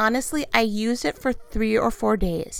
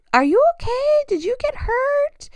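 alarmed call. Retold or imitated. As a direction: call out in alarm, checking he's hurt. Calling to screaming husband.

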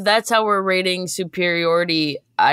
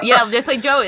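laughing; 6 semitones higher, 4 dB louder than usual. Real, not acted. Laughing at the Joey joke.

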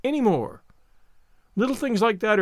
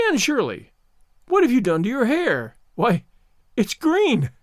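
shocked exclaim; 5 semitones higher than usual. Acted. Marilla shocked at green hair.

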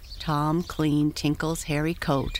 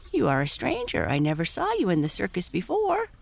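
high, fast pony voice; talking pony; 4 semitones higher, faster than usual. Acted. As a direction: chatter like a curious pony.

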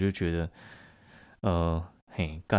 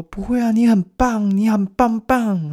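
put-on sweet girly comfort; 9 dB louder, slower than usual. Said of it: "其他女生就说".

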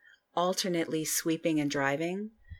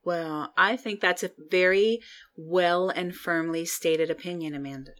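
condescending. Acted. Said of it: "she said condescendingly".

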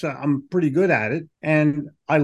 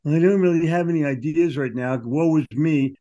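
whiny person; 2 semitones lower than usual. Retold or imitated. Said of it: "you sound like a whiny person".

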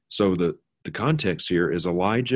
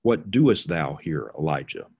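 solemn King James God voice; 3 semitones lower than usual. Retold or imitated. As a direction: intone it like the old King James. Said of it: "but King James".

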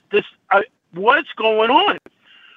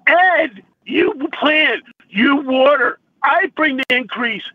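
tearful; 4 semitones higher than usual. Real, not acted. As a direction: push the words out while crying. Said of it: "I'm sorry I'm crying".

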